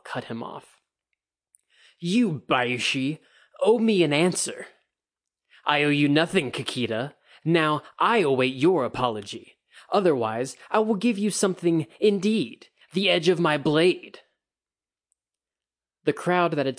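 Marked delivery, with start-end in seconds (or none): 2.0-4.7 put-on loud, slurred, slow drunken call; a drunk samurai calling out a rival; drunken challenge. A narrator's reading. Drunk samurai challenging Bayushi in the street, loud and slurred. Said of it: "loud and slurred by alcohol". 5.6-14.2 loud, slurred threat rising higher; drunken threat. A narrator's reading. Drunk Bayushi threatening Kikita with his blade, loud and slurred. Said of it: "their words slurred and much too loud".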